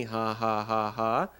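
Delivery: spoken ha-ha-ha on a level pitch; mock laugh. A narrator's reading. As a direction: fake a deliberate, spelt-out laugh. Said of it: "he laughed again".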